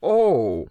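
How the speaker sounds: drawn-out falling groan; harassed groan. A narrator's reading. Crockett hearing his plan is useless, harassed groan. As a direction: groan in dismay. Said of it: "the harassed Crockett groaned".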